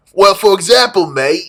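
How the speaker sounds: put-on high, loud botched British accent that lands Australian; badly faked British, sounding Australian. Showing friends how they talk, in a botched Australian-British accent. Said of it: "that was a goddamn Australian accent".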